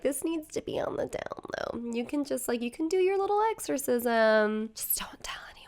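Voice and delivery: hushed, conspiratorial whisper of a bishop; a hint of a sly bishop whispering; secretive whisper. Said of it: "They're like".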